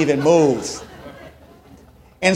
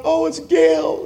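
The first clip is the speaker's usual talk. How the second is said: high, slow, drawn-out mock delight; gushing congregation; 12 semitones higher, 3 dB louder, slower than usual. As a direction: stretch it out high like an adoring crowd. Congregation recognizes aunt.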